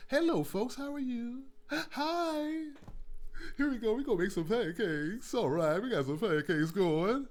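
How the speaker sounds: mock a squeaky-clean Food Network host; sanitized TV cook. Mocking a bland TV cooking host. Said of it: "a sanitized cooker who just".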